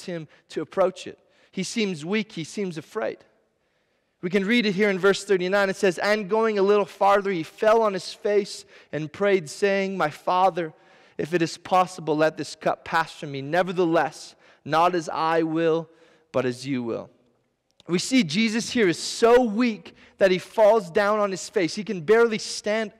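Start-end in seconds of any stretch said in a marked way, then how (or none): 6.0-17.1 scripture reading. Acted. Reads verse thirty-nine.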